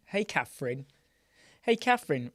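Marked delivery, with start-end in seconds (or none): 1.6-2.3 higher and louder, delighted hello; excited greeting. Real, not acted. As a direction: call out to her happily. Greets viewer twice, second brighter.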